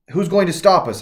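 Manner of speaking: put-on Mary shouting back at old Mary, defiant; retold shout. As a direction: throw the question out in anger. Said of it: "I shouted".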